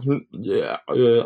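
mock retching sounds; imitated gagging. Boy cleaning smelly fish, mimed gagging. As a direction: act out a gag between words. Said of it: "gagging while I'm".

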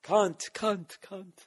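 high, loud swearing into the mic; shrieking the swears at the microphone in mock frustration; mock mic-check yelling. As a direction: bellow the swears like a deranged sound check. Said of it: "Go up there".

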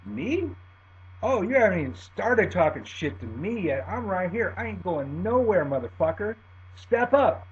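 retold macho challenge; defiant challenge. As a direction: goad him to step up. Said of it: "I look at him and go".

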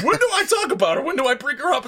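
very high, loud indignant squawk; mock indignation. Echoing co-host's take on the ranting date, high loud indignation. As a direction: exaggerate the outraged denial. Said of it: "He gets right off this rant".

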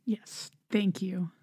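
too moved to speak aloud; choked up. Real, not acted. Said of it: "Oh, getting choked up".

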